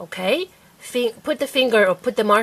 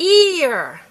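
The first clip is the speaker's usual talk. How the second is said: EAR short and higher; said fast; 6 semitones higher, 4 dB louder than usual. Shown as a demonstration. Teacher blending the sounded-out word, said fast.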